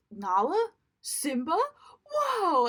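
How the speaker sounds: rápido e exagerado, terminando num whoa bem alto e agudo; mocking rushed reunion. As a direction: zombe do reencontro sem emoção. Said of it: "this is just like".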